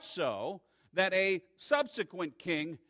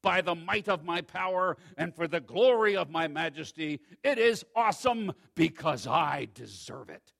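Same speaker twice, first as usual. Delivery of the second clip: proud king boasting; 7 dB louder than usual. Acted. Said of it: "The king reflected and says".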